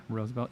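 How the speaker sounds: "Roosevelt" with "oh", despite the double O; ROSE pronunciation. Shown as a demonstration. Vlogger noting the two O's, "Roosevelt" as ROH-zuh-velt. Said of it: "even though there's two O's".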